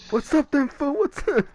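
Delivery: high, hammed-up street challenge; mock tough guy. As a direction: taunt them like you're ready to fight, in jest. Acting tough to scare people.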